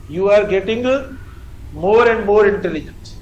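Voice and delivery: slow, stretched words; slow dictation. Shown as a demonstration. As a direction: dictate for the class to copy. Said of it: "teacher dictating". (धीरे-धीरे लिखवाना)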